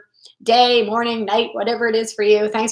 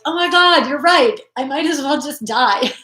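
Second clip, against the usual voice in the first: higher hammed-up hopeless agreement; mock despair; 4 semitones higher than usual. Agreeing with the inner critic, higher hammed-up despair. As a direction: play up believing the inner voice. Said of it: "you're like".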